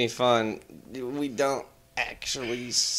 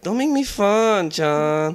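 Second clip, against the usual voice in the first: upward inflection, slow and louder; uptalk; 7 semitones higher, 4 dB louder, much slower than usual. Shown as a demonstration. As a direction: rise it up, drawn out. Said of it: "with an upward inflection".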